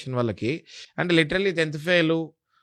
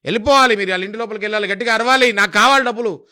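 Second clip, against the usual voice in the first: imitating a boss barking orders, higher and louder; mock a manager driving his agents on; a boss ordering his recovery agents in, mock commanding; pushy bank boss; 4 semitones higher, 4 dB louder, faster than usual. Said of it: "పైన bank అధికారులు".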